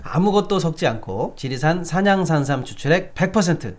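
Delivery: upbeat sales pitch read; hard sell ad. Acted. Reads a live ad.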